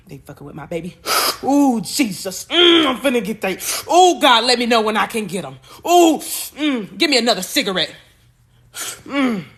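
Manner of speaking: a hint of a furious ancestor grandma, mocking the offenders; angry grandma voice. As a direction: voice grandma ready to fight, sucking her teeth. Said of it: "I can see her, like".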